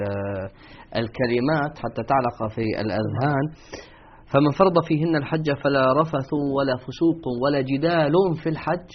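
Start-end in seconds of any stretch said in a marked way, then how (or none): 4.3-8.9 slow recital, رفث، فسوق، جدال ending in -un; measured verse with rafathun, fusuqun, jidalun for رفث، فسوق، جدال; nominative with tanween. Shown as a demonstration. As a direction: say جدال as jidalun, each noun nunated. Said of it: "هو الوحيد الذي رفع".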